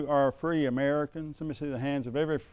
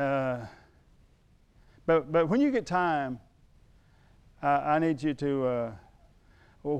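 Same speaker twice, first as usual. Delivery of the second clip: lightly imitated hesitant neighbour, halting and stumbling. Neighbour asking the painter to save him, lightly hesitant. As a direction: hem and haw, as if sorry to bother.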